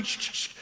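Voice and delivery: quiet hushing shh shh shh; mock shushing. Preacher mocking Judaizers, quiet shushing. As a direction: shush the crowd like a secret.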